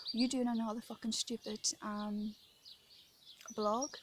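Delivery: mildly mocking the man's jeer, swear word left in; quoting a heckler's sneer lightly, swearing included; retold taunt, uncensored. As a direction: repeat his taunt plainly, with the curse. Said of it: "that was what he said".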